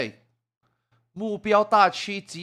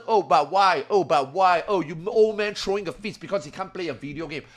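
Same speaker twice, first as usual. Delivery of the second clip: mocking whiny child. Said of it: "Children are making noises".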